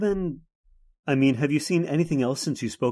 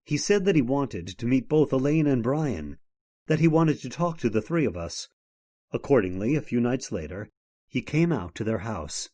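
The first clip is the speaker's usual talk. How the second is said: measured storyteller narration of a ghost tale; story narration. A narrator's reading. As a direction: tell it like an old radio mystery narrator.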